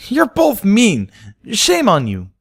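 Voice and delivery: high, loud and slow scolding. A narrator's reading. Pina scolding her classmates, high and angry. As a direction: tell them off fiercely.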